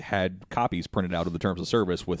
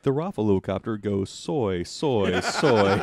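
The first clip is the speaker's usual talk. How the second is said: imitating robot voice; slower than usual. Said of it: "how Robot Lady says that".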